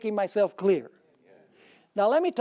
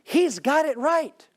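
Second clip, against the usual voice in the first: mock admiring praise; 4 semitones higher, 4 dB louder than usual. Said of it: "They say".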